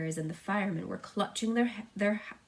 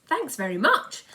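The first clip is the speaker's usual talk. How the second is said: loud, higher sarcastic retort; sarcastic snap; 6 semitones higher, 9 dB louder than usual. A narrator's reading. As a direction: throw the thanks back sourly. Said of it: "snapped the head of the fire department".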